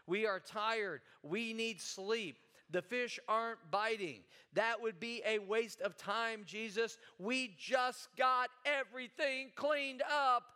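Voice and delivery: tired, complaining fisherman; whiny excuse. Retold or imitated. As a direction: lay out the excuses wearily. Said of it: "the translation of that is".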